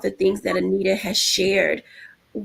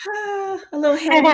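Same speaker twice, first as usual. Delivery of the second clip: mock heavy sigh; 9 semitones higher than usual. Host voicing the panel's reaction to a heavy story, mock sigh. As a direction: let out a high "ah" as if weighed down. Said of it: "I know, we're like".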